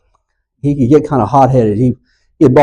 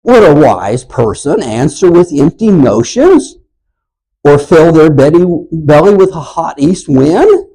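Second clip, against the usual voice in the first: higher, louder, scornful rebuke; mean; 5 semitones higher, 4 dB louder than usual. Acted. Eliphaz scolding Job as a windbag, mean and scornful. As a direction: talk down to Job like a smug know-it-all. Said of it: "just being mean".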